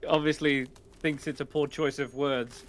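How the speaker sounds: ordinary talk, nothing marked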